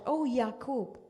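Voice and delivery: calling out. Retold or imitated. Traveller calls out loudly for Yaqub in Canaan. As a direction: call the name across the valley. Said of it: "he's calling out".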